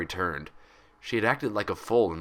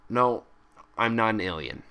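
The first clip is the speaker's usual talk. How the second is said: dry; 2 semitones higher than usual. Acted. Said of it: "she said dryly".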